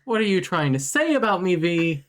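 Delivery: put-on Liverpool accent. Teasing his friend V in a Liverpool accent. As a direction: drawl it out in mock Scouse. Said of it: "got a little lost on the accent".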